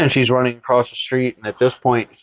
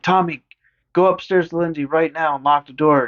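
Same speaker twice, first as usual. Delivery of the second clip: urgent order; 5 semitones higher than usual. Retold or imitated. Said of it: "she's like".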